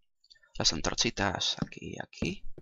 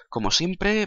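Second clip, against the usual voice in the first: high sing-song; 10 semitones higher, 6 dB louder, slower than usual. Acted. Outro start, high.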